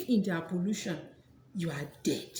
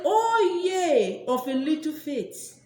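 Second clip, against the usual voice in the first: intoned scripture; 5 semitones higher, 5 dB louder, slower than usual. Pretend. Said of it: "Bible say".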